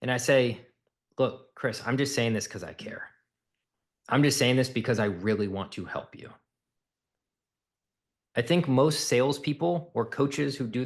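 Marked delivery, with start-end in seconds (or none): 1.2-6.3 lowered caring tone. Shown as a demonstration. Coach to prospect Chris, lowered empathetic caring tone. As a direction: soften and drop into an empathetic, caring voice. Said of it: "And then I lower my tone".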